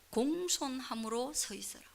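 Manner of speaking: hushed, humble whisper. Acted. Pastor hushing the room to show a humble listener, whispering. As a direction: breathe it out softly, no voice. Contrasting gentle wise answer.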